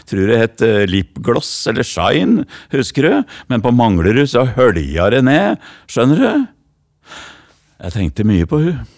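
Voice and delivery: rhythmic slam poetry in broad Oslo east dialect, with the girl's lines lightly voiced. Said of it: "nå går jeg over til det breie språket fra Hellerud".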